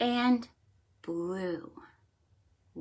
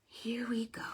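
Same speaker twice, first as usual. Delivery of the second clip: hushed start; 11 dB quieter than usual. Acted. Starting the book.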